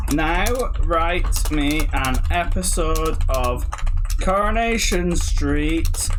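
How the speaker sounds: drawn-out words while typing; dictating slowly. Real, not acted. Typing a Coronation Street prompt, slow dictation. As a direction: dictate word by word.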